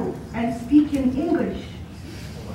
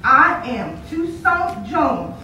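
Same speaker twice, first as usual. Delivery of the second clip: slow, deliberate boast; a hint of a proud boy, every word spaced; boy repeating his name, slowly proud; lightly voiced proud boy; 3 semitones lower, slower than usual.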